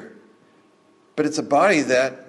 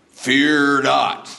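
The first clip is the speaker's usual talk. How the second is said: cartoon Jesus; 4 dB louder than usual.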